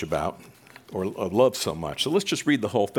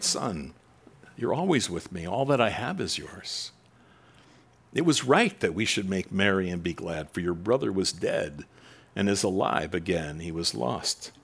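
softer, lower reassuring father; calm the angry son tenderly; gentle father; 4 semitones lower, 3 dB quieter than usual. Acted.

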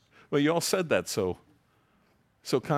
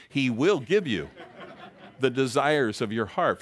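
emphatic promise; 2 semitones higher, 4 dB louder than usual. Shown as a demonstration. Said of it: "For those of you who don't believe that".

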